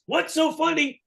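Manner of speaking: high-pitched indignant demand; comic affronted outburst; mock indignation. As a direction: imitate an outraged man demanding an answer. Gene angrily confronts the laughing teller.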